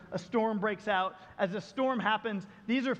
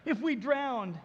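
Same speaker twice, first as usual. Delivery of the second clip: slow pleading; 3 semitones higher, much slower than usual. Retold or imitated. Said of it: "their question".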